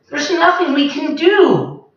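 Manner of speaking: high, helpless creature voices; helpless chorus. Acted. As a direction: give up sadly together.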